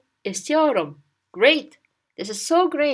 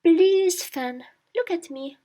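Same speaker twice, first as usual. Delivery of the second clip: acted appeal to a friend; 6 semitones higher than usual. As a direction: call for a friend's attention, imploringly. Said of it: "You tell him".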